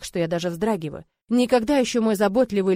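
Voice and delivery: plain reading voice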